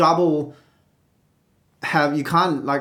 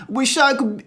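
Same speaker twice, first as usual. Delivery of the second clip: strangled; 9 semitones higher than usual. Shown as a demonstration. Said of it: "and just strangle yourself".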